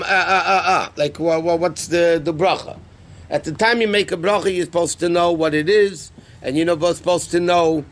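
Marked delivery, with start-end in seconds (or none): 0.0-2.8 stammering, searching for the word; mock hesitation. Person with food in hand forgets which blessing, mock hesitant. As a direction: stall on repeated sounds, feigning forgetfulness. Acts out not knowing the blessing.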